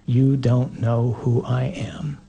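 slow whisper. Acted. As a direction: whisper it like a secret truth. Jesus' voice, intimate climax.

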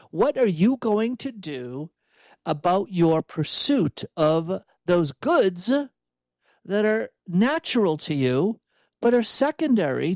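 measured and pointed, every word weighted; self-directed imperative. Shown as a demonstration. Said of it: "say it as an imperative".

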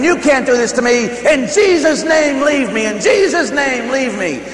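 high, loud, desperate retold cries; screamed exorcism. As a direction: shout the devil away, pitch way up. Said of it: "And I'm screaming".

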